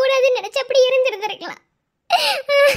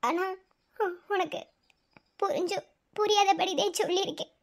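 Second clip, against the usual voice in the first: much softer, lower, near a whisper; hushed confession; 4 semitones lower, 7 dB quieter than usual. Acted. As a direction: let the secret slip quietly. (மெதுவான ரகசியக் குரல்)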